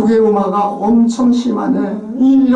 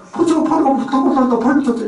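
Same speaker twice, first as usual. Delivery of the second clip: Jeolla dialect, higher, lips kept pursed; pursed-lip Jeolla speech; 6 semitones higher, faster than usual. Shown as a demonstration. Lecturer imitating Jeolla elders speaking with pursed lips. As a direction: mumble it through rounded lips like a Jeolla elder. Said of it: "오므러져 있는 사람들이 그 말을 하기가".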